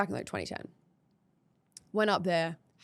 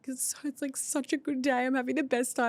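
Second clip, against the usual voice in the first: imitating tearful voice; 6 semitones higher than usual. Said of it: "I was in tears".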